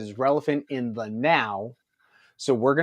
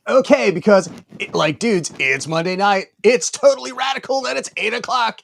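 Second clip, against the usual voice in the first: hyped surfer dude voice; loud, fast radical announcer; extreme hyped kids ad; 9 semitones higher, 9 dB louder than usual. Acted. Surfer-dude hyped show intro.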